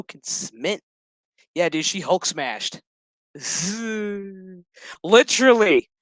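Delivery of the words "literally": high, loud laughing delivery. Real, not acted. Reviewer laughing at She-Hulk scene, laughing. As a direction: crack up as you say it.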